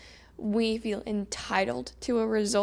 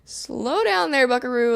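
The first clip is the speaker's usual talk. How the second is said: playful self-scolding; 2 semitones higher, 4 dB louder than usual. Acted. Coach telling herself to calm down, playful scolding. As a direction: rein yourself in with a laugh.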